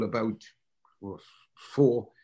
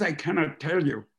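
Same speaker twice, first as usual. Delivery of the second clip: put-on German accent; 3 semitones higher than usual. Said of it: "She says".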